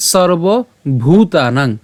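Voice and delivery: ভূতানাং with pressed ভ and long ū; pressed pronunciation. Shown as a demonstration. Teacher shows learners the long vowel, ভূতানাং pressed and drawn out. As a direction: slowly stretch ভূতানাং, leaning on the first syllable. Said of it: "উচ্চারণটা একটু চাপ দিতে হবে".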